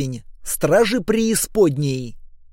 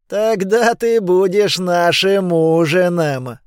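two giant heads in unison; 4 dB louder, slower than usual. Acted. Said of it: "в один голос ответили две головы монстра".

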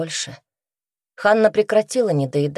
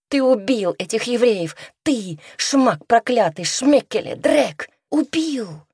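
higher, rising sobbing scream; tearful screaming; 6 semitones higher, slower than usual. A narrator's reading. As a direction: curse him through tears, climbing up. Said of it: "заливаясь слезами".

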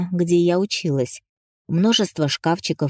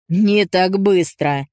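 firm; 4 dB louder, much slower than usual. Acted. Zorg stops her.

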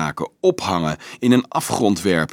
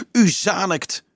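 exclaiming; 8 semitones higher than usual. A narrator's reading. Dolf protests to his accuser, exclaiming. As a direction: cry out in protest. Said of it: "riep hij uit".

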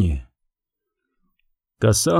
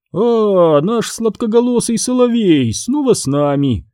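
mocking; 8 semitones higher than usual. A narrator's reading. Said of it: "издевается Макс".

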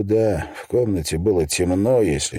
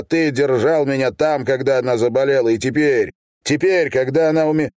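furious accusations; 6 semitones higher than usual. Acted. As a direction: hurl every accusation at him. Son yells accusations at father.

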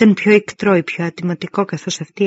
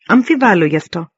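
loud, mildly raised doubting call; shouted heckle; 6 dB louder than usual. A narrator's reading. A soldier heckles the commander from the ranks, shouted. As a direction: call it out from the crowd, louder. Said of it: "φώναξε κάποιος".

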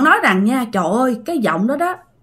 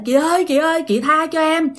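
put-on higher, begging voice of a scared girl; higher, desperate begging for mercy; frightened pleading; 6 semitones higher than usual. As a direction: plead for your life with the ghost. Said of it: "bạn suy nghĩ rằng á là".

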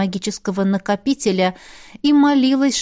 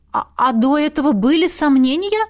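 higher, hesitant surprised question; 5 semitones higher than usual. A narrator's reading. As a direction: ask in surprise, voice lifting. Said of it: "удивилась я". (удивлённый вопрос)

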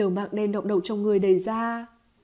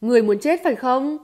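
louder, icy challenge; cold threat; 3 semitones higher, 6 dB louder than usual. Acted. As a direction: threaten coldly with a raised voice. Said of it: "lạnh lùng nói". (lạnh lùng đe dọa)

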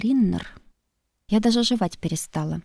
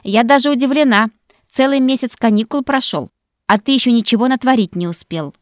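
higher, louder sarcastic teasing; sarcastic surprise; mock surprise; 5 semitones higher, 8 dB louder than usual. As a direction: needle him with fake astonishment. Maggie mocks Connor.

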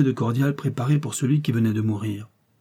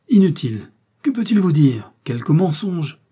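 loud, high, scornful dismissal; dismissive refusal; 6 semitones higher, 6 dB louder than usual. A narrator's reading. Detective dismissing what the bandit could say, emphatic. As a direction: brush the request aside forcefully.

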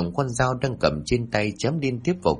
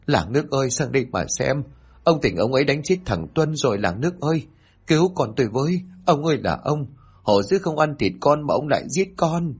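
high calling out to the village, higher throughout; wailing for help; 6 semitones higher than usual. A narrator's reading. Mother calling the villagers after her son is killed, high wailing. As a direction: cry out to the whole village in grief. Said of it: "bà gào khóc rồi la làng".

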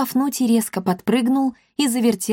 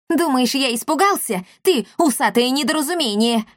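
higher, defiant mock shout; mild shout back; 5 semitones higher than usual. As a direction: taunt him back, lightly raised. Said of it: "крикнул в ответ брат Шнырь". (задиристо, чуть громче)

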